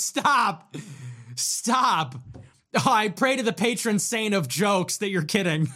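high, giggly, hammed-up delight; exaggerated high-pitched pretend hilarity; mock amusement. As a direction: overplay being tickled, laughing between phrases. Mock amusement at a bad joke.

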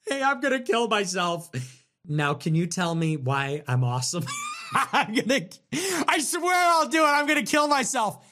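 mock attention-seeker. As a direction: parody someone begging for validation. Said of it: "we need a little pep talk".

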